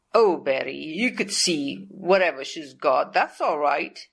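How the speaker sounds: a touch of mock sweetness, not meant; imitating a bookkeeper's fake politeness; sarcastic. Bookkeeper brushing off the salesman to the owner, lightly sarcastic. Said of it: "sarcastically, of course".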